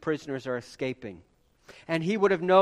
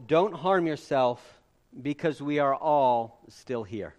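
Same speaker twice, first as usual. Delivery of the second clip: scripture reading; 4 semitones lower, slower than usual. Retold or imitated. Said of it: "But Paul called out in a loud voice".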